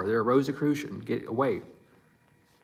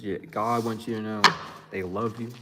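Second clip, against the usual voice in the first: reassuring; 4 dB quieter than usual. Real, not acted. Reader reassures viewer of love.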